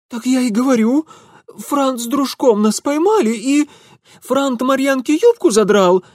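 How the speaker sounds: high, loud blurting; agitated peasant girl. Acted. Girl telling Mitya what the dandy did, high and loud. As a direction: spill it out, upset. Leska voiced.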